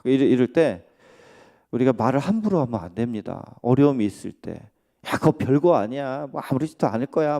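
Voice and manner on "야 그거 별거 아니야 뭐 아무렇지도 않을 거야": quick, offhand dismissal of someone's pain; careless brush-off. Pretend. Preacher mimics a careless friend brushing off an injury, fast and offhand. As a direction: toss it off as no big deal, a bit fast. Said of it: "막 하면서".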